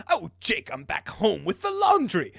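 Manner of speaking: high, laughing sing-out greeting; mock housewife Dirk. Feminized Dirk coming home to Jake, mock high call.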